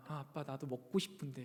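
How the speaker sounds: low, soft imitation of a child; quiet child's plea. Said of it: "조용하게 말하는 거예요".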